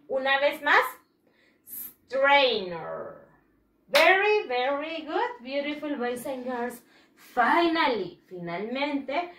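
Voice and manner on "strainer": "Strainer" drawn out from a long initial s; slow, careful "Strainer" for repeating; model pronunciation. Shown as a demonstration. Teacher asks pupils for one more time, model pronunciation. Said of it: "One more time".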